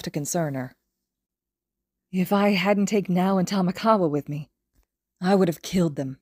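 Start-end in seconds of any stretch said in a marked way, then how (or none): 2.1-6.2 voice cracking. Acted. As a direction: voice cracking with pain. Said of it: "His voice cracked".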